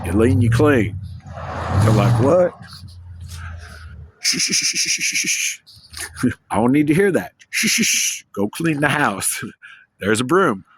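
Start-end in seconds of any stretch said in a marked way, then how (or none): 0.0-1.0 louder, punchy one-liner; dad's catchphrase. Retold or imitated. Trucker dad brushing off the nagging with a punchy line. 2.2-2.5 high, loud questioning what; baffled what. Retold or imitated. Family baffled by the dad's line, high and loud. 4.2-10.7 hissed shushes rising much higher; mock shushing dad. Dad hushing the nagging family, hissing shushes, half-laughing.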